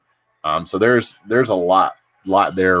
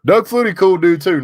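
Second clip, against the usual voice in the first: excited; 11 semitones higher, 5 dB louder than usual. Real, not acted. Excited name call.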